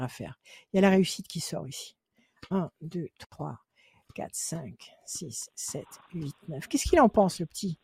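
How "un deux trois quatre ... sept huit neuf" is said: low, very soft murmured count; counting under breath. Real, not acted. Card reader counting out cards mid-consultation, murmured to herself. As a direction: count quietly to yourself, dropping toward a whisper.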